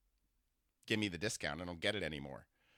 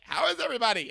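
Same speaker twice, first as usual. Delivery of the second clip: high, loud, sing-song camp voice; imitating a flamboyant older man; 14 semitones higher, 8 dB louder, faster than usual. To a stranger on the subway, gushing camp impression. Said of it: "I imitate people".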